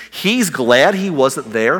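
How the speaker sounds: slow, disbelieving rising question; incredulous question. Retold or imitated. Disciples can't believe Jesus is glad, slow disbelieving question. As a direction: drag it out like you can't believe it.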